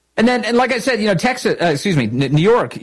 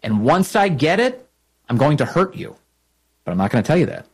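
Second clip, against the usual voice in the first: mock Democrat creed; 4 semitones higher than usual. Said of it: "It's basically".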